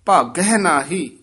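ਭਾਗਹਿ ਨਾਹੀ said as one phrase, resting after ਨਾਹੀ. Shown as a demonstration. Teacher marks the rest, pausing after ਨਾਹੀ. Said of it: "ਇੱਥੇ ਵਿਸਰਾਮ ਹੈ".

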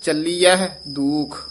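ਚੱਲੀਐ with its h sound pronounced; voiced h in ਚੱਲੀਐ. Shown as a demonstration. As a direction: say ਚੱਲੀਐ with the h sound, not as ਚੱਲੀਐ without it. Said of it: "ਹਾਹਾ ਵੀ ਉਚਾਰਨ ਕਰਨਾ ਹੈ".

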